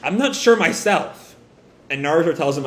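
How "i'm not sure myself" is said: hesitant stammer, drawn out and higher; falter, then admit uncertainty slowly. Acted. Boruto questioned by his father, stammering. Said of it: "And Boruto kinda stammers".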